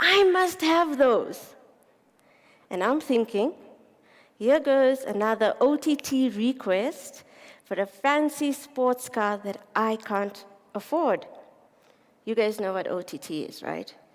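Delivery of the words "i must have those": put-on high, loud, wanting little-kid voice. Retelling what your son said one day, in a high-pitched voice. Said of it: "in a high-pitched voice".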